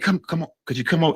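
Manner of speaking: retold quiet, coaxing aside; discreet beckoning. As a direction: softly imitate calling someone aside. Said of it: "She called me to the side".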